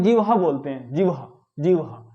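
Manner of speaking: जिह्वा with h after v: "jivha"; जिह्वा with swapped h and v; common mispronunciation. Shown as a demonstration. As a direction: say जिह्वा as "jiv-ha". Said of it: "क्या बोलते हैं?".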